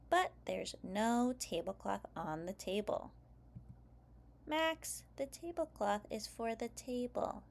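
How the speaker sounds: put-on lively read-aloud for young kids; story narration. A narrator's reading. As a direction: read it like story time for preschoolers. Reads picture book aloud.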